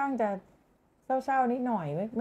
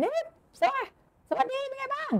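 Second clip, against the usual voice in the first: very high, strained ghost greeting; booming ghost voice; 3 dB quieter than usual. Shown as a demonstration. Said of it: "ก็คือการโรคือทำเสียงได้". (เสียงผีสูงมากทักทายเสียงดัง)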